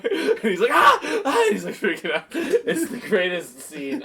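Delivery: cracking up at the scene; laughing through it. Real, not acted. Laughing while retelling.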